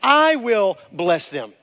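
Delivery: "I" stressed, slow and firm; emphatic and slow. Shown as a demonstration. Pastor stresses God's own promise, slow emphatic I. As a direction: lean hard on I. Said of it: "listen to this, changes it".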